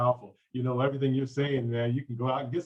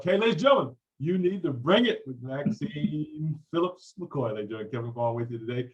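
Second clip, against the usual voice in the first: show announcer; 3 dB louder than usual. Acted. Host shouting out his guest to listeners, hyped announcer. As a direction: pump up the audience like a radio host.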